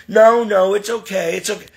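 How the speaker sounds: put-on dismissive reassurance; mock brush-off. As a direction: imitate her waving off help. Mimics Donna declining help.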